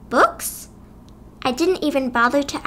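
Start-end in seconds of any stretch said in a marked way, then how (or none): 0.1-0.7 confused. A narrator's reading. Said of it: "looked confused".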